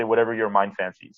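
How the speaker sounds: usual speaking voice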